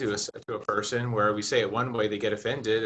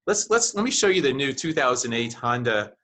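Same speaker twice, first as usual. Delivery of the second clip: pet talk salesman. Pretend. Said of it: "if I were the salesperson, I'd be like".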